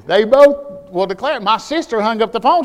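normal talking voice

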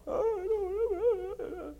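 high, drawn-out crying voice; boy crying to his Sunday school teacher. Retold or imitated. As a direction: sob the words out slowly.

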